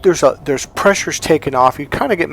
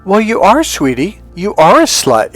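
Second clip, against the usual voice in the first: higher-pitched, lightly sugared retold reassurance; loving, sweet voice; 6 semitones higher, 5 dB louder than usual. Godfather deliberately shocks crying goddaughter, loving sweet voice. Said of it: "a kind of a loving, kind of sweet kind of voice".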